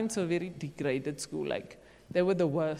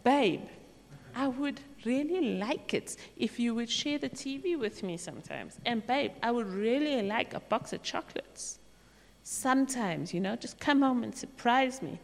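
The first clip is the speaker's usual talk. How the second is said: gentle request; 3 semitones higher than usual. Shown as a demonstration. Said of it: "I should be saying".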